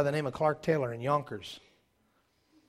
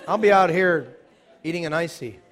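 laughing; 3 semitones higher, 6 dB louder than usual. Retold or imitated. Laughing retelling of childhood fear.

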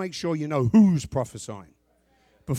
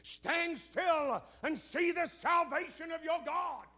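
mocking quote; 12 semitones higher, 9 dB quieter, slower than usual. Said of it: "heard people quote this scripture".

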